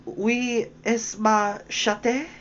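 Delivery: "Oui, est ma chatte?" said slowly in careful textbook French; schoolgirl French. A narrator's reading. Alice trying her lesson-book French on the mouse. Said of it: "So she began again".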